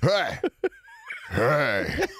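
yelled high, half laughing; high mock shout of a stoned caller. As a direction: ham up a wasted caller hollering. Meth head caller yelling.

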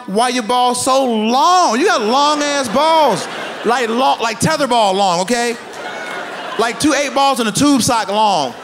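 high, loud, slow disbelieving yell; mock shocked shout. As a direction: stretch out the horror, loud. Yelling at grandpa's balls.

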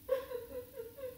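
high quiet whimpers; faint pretend sobbing, high-pitched; little boo-hoo in short bursts; soft mock crying. Sound of the snake crying in story.

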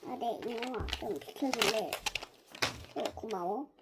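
a slightly deepened voice for the doll; deep pitch shifted. Acted. Child talks to the doll.

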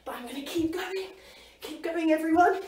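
encouraging shout. Real, not acted. Coach urging on class.

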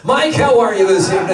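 slick game show host patter. Pretend. Host chatting to Mike the scorekeeper, game show voice. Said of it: "so I have a game show voice".

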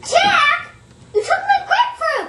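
accusing shout. Acted. Sister accusing Jack.

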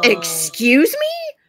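drawn-out, affronted questioning; taken aback. Retold or imitated. Old man answers a stranger who accosted him, affronted. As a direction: act out a slow, offended reply.

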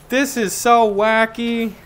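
hammed-up wacky Creed; mock Creed. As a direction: play him loopy and drawn out. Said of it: "Creed is just like".

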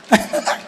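short voiceless chuckle; brief real laugh to oneself. Real, not acted. Teacher recounting a woman's praise of his phrases, chuckling.

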